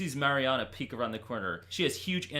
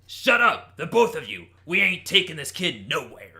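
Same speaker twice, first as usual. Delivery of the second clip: gruff Wolverine; 6 dB louder than usual. Acted. Wolverine growls at Storm and Callisto.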